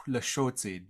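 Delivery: Southern Lushootseed accent. Shown as a demonstration. Language teacher slipping into their own dialect, Southern accent. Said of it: "can't get over my Southern accent".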